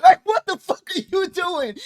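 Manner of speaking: high, loud laughing mock yell; laughing disbelief. Co-host mocking his friend's move, laughing high and loud.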